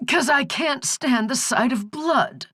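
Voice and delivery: put-on high, folksy old hag; croaking old crone. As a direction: drawl it like a backwoods granny. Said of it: "the croaking was starting to hurt her throat".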